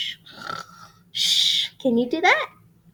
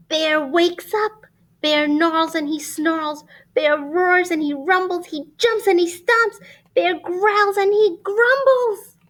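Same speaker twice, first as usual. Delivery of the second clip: rising excitement; 7 semitones higher, 5 dB louder than usual. A narrator's reading. Bear wakes, rising excitement.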